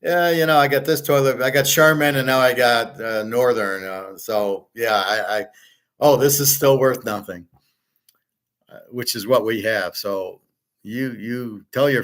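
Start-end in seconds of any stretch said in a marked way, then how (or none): 0.0-7.5 mocking quote. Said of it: "You can't just say".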